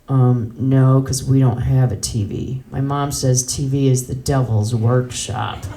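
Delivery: a hint of a self-righteous kid; prim young clerk. Clerk explaining to customer about no TV, lightly voiced prim reply.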